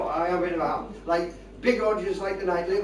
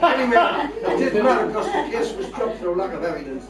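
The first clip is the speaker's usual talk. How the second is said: laughing; 6 semitones higher, 7 dB louder than usual. Real, not acted. Laughing through the story.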